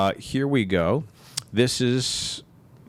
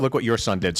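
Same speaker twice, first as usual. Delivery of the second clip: a dry, softer "Look what YOUR son did"; blaming parent quote; 3 dB quieter than usual. Retold or imitated. Wife handing the blame for the prank to her husband, dry. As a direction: pass the blame, stress on "your". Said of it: "But when he does this".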